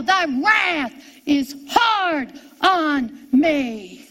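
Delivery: drawn-out cry, word by word. Retold or imitated. Preacher voices Jesus crying out in hell, slow drawn-out cry. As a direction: cry it out very slowly, stretching each word. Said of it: "Jesus cried out in hell".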